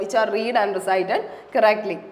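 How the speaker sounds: English words read slowly, one by one; slow dictation reading. Shown as a demonstration. Teacher reads etymology definition to students, slow dictation.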